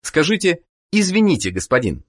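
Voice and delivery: ordinary talk, nothing marked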